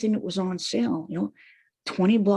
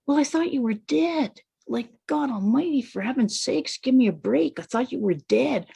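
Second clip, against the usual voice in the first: put-on child protesting; 2 semitones higher than usual. Child protesting to angry mother.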